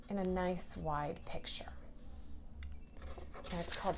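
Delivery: soft, secret-sharing whisper; hushed storytime whisper. Acted. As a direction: drop to a whisper to finish the thought. Teacher leaning in to children.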